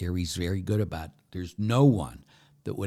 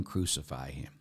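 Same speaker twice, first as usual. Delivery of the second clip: crowd cry; 4 semitones lower, 5 dB quieter than usual. Acted. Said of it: "they're crying".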